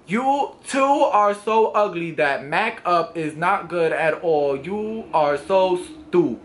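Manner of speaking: slow, deliberate mock reading of a comment. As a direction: read it word by word, making fun of the spelling. Mockingly reads misspelled hate comment.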